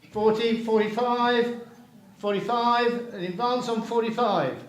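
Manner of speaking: auctioneer calling bids, going once, going twice. Real, not acted. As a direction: drive the bidding on. Auction bidding calls.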